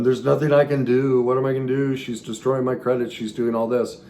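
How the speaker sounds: panicked pleading. Retold or imitated. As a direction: relive the helpless panic, pleading. Retelling his panic to counselor.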